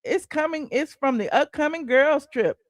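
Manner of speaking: lightly voiced doubting fan; a hint of a skeptical commenter; mock fan disbelief. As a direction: commenter insisting it's real. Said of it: "They said".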